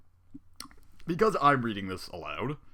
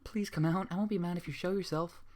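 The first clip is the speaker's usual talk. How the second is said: nervous plea; 7 semitones higher, 3 dB quieter than usual. A narrator's reading. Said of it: "Fluttershy said nervously".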